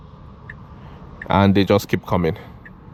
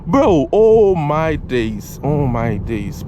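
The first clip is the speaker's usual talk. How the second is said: drawn-out amazement; 3 semitones higher, much slower than usual. Real, not acted. Amazed by the acceleration.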